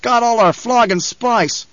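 high, slow, aggrieved growl; growled complaint. A narrator's reading. Rescued man cursing the lost spice, growled. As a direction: growl it slowly, pitched well up. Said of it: "growled another".

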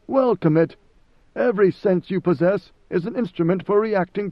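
God Emperor Leto. Acted. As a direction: speak as a calm ancient ruler questioning his servant. Narrator voices Leto.

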